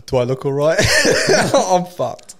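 high, loud retold retort breaking into laughter; mock indignation. Injured surfer answering the girl who paddled over, mock indignation. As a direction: throw the question back in exaggerated disbelief.

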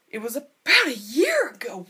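whispered, half to herself; hushed realization. Real, not acted. Vlogger realizing her first video was a year ago, in a whisper. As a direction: breathe it out as it dawns on you.

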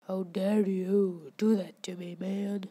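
hoarse indignant whisper; outraged whisper. Real, not acted. Gamer scolding an escaped fish, indignant whisper. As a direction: seethe it under your breath.

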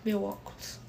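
sudden loud call to a friend nearby; real surprised shout for help; startled call. Real, not acted. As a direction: blurt it out as the glasses drop. Glasses fall, calls out mid-story.

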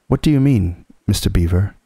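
out of breath from climbing; gasping words mid-scramble; panting. Acted. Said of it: "panted Peter".

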